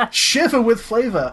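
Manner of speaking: laughing through the phrase. Retold or imitated. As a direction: giggle it out. Repeating Marshy's phrase, laughing.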